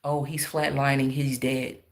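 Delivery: low, soft hushed mock of the medics; hushed whispering. Medics murmuring to each other about the patient, hushed. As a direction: softly imitate a muttered aside. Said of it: "They whispering to each other".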